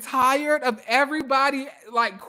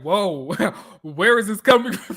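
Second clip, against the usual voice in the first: laughing mock surprise; 2 semitones lower than usual. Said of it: "Angela's like".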